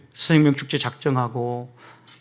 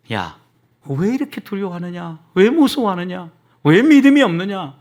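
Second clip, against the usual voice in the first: rebuking; 2 semitones higher, 3 dB louder than usual. Acted. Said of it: "이렇게 주님은 책망한 거예요".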